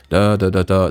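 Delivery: tentative masculine register on nonsense syllables; forced masculine voice. Shown as a demonstration. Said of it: "That feels like I'm forcing masculinity".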